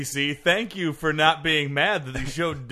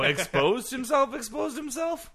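incredulous; 9 semitones higher, 5 dB quieter than usual. Real, not acted. Laughing disbelief at headline.

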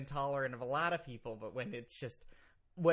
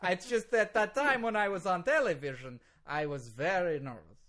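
put-on higher, defensive Russian-accented excuse; super Russian accent; 4 semitones higher, 3 dB louder than usual. Lawyer defends his accent to host, super Russian accent. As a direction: protest innocently in exaggerated Russian English. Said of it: "now you sound super Russian".

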